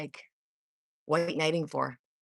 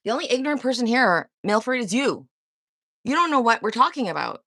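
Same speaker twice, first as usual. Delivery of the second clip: raised, louder voice hitting back at Milford; heated retort; 4 semitones higher, 5 dB louder than usual. Real, not acted. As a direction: push back hard and loud.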